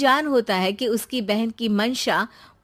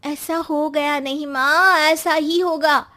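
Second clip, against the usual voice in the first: slow, raised insistence; emphatic warning; 3 semitones higher, 4 dB louder than usual. Acted. Daughter warning mother that ruin will come, emphatic. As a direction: press each word home firmly.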